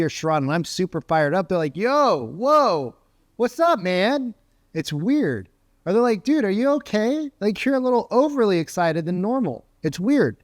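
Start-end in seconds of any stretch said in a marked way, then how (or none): 1.8-4.3 higher-pitched, startled friend; mock-startled, pitched up; taken aback. Friends startled by overexcited call. 6.2-9.6 high-pitched, baffled buddy; mock-bewildered, voice raised; puzzled concern. Friends puzzled by overexcited caller.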